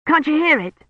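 put-on high, eager boyish voice; excited boy. Colin hearing the bell ring, excited. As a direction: rush out the news of the bell.

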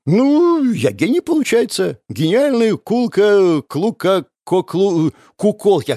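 громко, путаясь в словах; хвастается и спотыкается на слове; сбивчиво, запинаясь. Acted. (хвастливо, заплетаясь языком)

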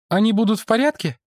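high, quick woman's voice; female voice. Acted. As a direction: ask it as the woman, pitched high. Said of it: "спросил женский голос". (высокий женский голос)

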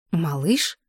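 quiet, rising disbelieving echo; surprised question. Acted. Heroine echoes doubtful word.

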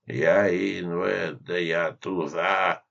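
slow, slurred mumble; mumbling. Acted. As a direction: mumble it out slowly. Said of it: "начал мычать инвалид".

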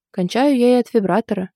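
plain reading voice

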